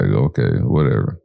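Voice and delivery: low skeptical shrug; dismissive. Retold or imitated. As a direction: brush it off, unconvinced. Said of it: "And I was like".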